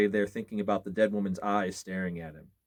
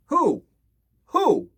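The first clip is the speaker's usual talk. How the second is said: much higher, loud ghostly wail; shrieking ghost cry; 9 dB louder than usual. A narrator's reading. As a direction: howl the question like a spirit. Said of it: "a voice cried".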